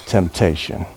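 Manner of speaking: slow, sighing whisper of Temptation; a hushed, drawn-out whisper. Real, not acted. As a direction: breathe the word out longingly. Breathy reveal of dessert.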